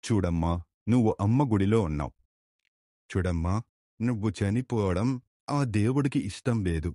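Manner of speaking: soft, calm soothing words; gentle reassurance. Acted. Swami telling the rescued woman to rest, soft and reassuring. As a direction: quietly comfort her to rest.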